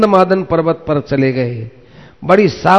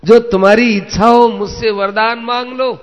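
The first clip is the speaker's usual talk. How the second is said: lifted, high voice without real laughter; laughing reassurance; 6 semitones higher than usual. A narrator's reading. Indra reveals himself to Arjun, mildly laughing reassurance. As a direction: reassure him, lightly amused, pitch raised. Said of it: "और हंसते हुए कहा".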